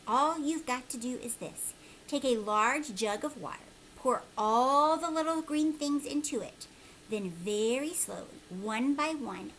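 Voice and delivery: lightly voiced old man, eager; a hint of a conspiratorial old man; old man giving instructions. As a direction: instruct him like a mysterious old stranger.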